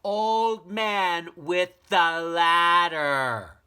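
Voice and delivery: high, loud, slow desperate call; last-breath shout. Acted. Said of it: "he shouted".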